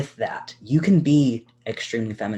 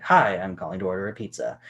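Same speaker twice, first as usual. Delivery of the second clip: a touch lower, flat and even; deep monotone. Shown as a demonstration. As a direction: keep it flat and steady like a guy ordering. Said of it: "It's a lot more monotone, it's deeper, it's flat".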